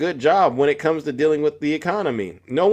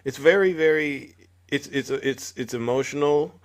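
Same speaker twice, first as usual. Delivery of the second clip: reassuring; 5 dB quieter than usual. Real, not acted. Host consoles the tearful caller.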